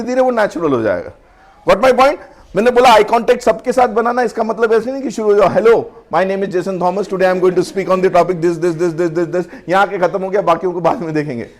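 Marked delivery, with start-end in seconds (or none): 5.5-9.4 slow, wooden, stuck on "this"; stuck reciting. Shown as a demonstration. Trainer mocks speaker stuck staring at one listener, slow. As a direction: recite slowly then get stuck repeating "this".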